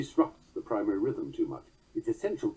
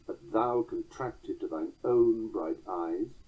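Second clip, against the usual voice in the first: slow, own hit firmly after three light beats; stress on own; slower than usual. Shown as a demonstration. Lecturer showing the beat falling on own, stress on own. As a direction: skim to thine, then hammer own. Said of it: "hammer harder down on the word own".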